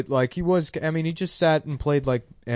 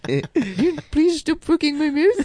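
very high, pleading, laughing; squeaky mock accent, begging; South African accent; 13 semitones higher, slower than usual. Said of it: "You guys are not doing a South African accent".

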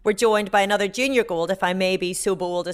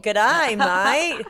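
mock Australian accent; 3 semitones higher, 5 dB louder than usual. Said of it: "We're getting worse".

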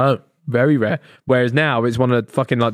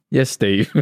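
low, slow mock geezer drawl; lightly voiced bloke, dropped low and slow; 6 semitones lower, much slower than usual. Naming the stereotypical geezer baby, low and slow. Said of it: "stereotypical geezer name".

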